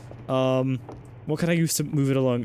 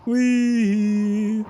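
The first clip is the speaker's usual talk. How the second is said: excited; 8 semitones higher, 4 dB louder than usual. Real, not acted. Riding up, joyful cry.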